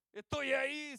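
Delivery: high, loud acted refusal; shouting from inside. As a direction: call back to the man outside. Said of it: "el otro de adentro le grita". (respondiendo a gritos desde la cama)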